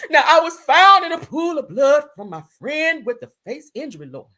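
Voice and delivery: loud, high melodrama dropping off at the end; a singer's voice. Retold or imitated. Reading a singer's injury post aloud, mock dramatic. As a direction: overact it with heavy, wailed stresses. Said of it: "I gotta read it in her voice".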